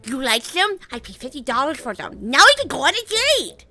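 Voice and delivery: excited. Acted. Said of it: "with excitement says".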